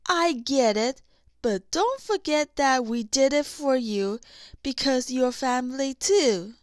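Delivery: a wide grin of affection; grinning and loud. Acted. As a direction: say it with a grin, fond and sure. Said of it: "Kristoff grinned".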